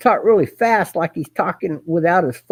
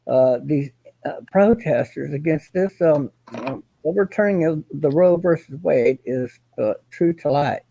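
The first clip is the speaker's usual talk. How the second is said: Kenneth as a reporter; 4 semitones lower than usual. Retold or imitated. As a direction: imitate his stiff reporter delivery, slowed down. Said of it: "If he had to be a reporter, he would sound like that".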